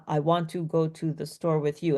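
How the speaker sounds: every word separated by a space; flat, mechanical word-by-word delivery; even, monotonous tone with each word set apart; robotic monotone. Shown as a demonstration. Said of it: "every word is separated by, like, a space".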